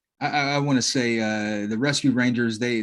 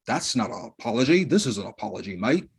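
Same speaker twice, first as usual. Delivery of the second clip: mock Australian. Mock Australian apology between mates.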